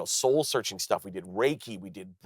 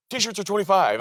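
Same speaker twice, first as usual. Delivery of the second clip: high, louder merch-table holler; calling out; 11 semitones higher, 5 dB louder than usual. Retold or imitated. Comic standing at merch table, calling out. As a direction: holler the price down the line. Hawking again to the line.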